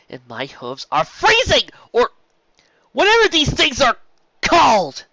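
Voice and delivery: high, loud whining shout; frantic high-pitched wail; shrill complaint. Acted. Complaining about the cold.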